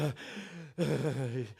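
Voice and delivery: drawn-out, falling mock groan; mimicked collective reaction. Preacher mimicking shocked pastors at lunch, mock groan. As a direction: act out a whole table's hearts sinking. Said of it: "o coração todo mundo".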